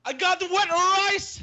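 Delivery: very high, slow silly squeal; squeaky mock voice. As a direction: squeak it like a cartoon. Mocking Oscar's far voice.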